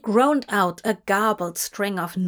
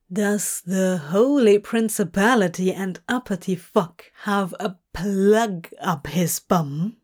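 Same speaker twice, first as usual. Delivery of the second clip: teasing. Acted. Teasing the bound angel.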